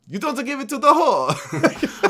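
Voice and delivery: screeching Tredoni. Acted. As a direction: screech it like a furious church lady. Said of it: "her dialogue is screeched".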